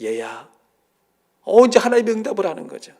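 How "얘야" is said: voice of God. Retold or imitated. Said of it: "하나님의 음성이 들렸어요".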